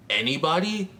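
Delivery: "anybody" set off by a pause; single out "anybody" as its own beat; stress on ANYBODY. Real, not acted. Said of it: "emphasis on anybody".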